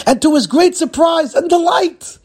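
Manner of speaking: high, loud, drawn-out announcement; surprised delight. A narrator's reading. Storyteller announcing the great surprise to listeners, thrilled delight. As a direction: build up the great surprise, slow and soaring.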